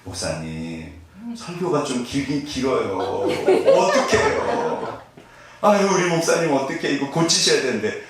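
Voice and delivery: a gentle church elder fretting over the long sermon; lightly voiced older woman, pitying; imitating an older deaconess. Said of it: "한 집사님 오셔갖고 제 손을 잡으시면".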